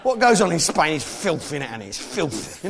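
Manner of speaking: "filthy" said "filfy" with an f for th; Cockney "filthy" as "filfy". Shown as a demonstration. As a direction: lean on "filthy" pronounced "filfy". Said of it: "say filthy like that".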